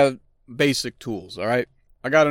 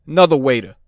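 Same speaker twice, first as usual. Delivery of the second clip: mock DJ tag; 5 dB louder, faster than usual. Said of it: "I like that one".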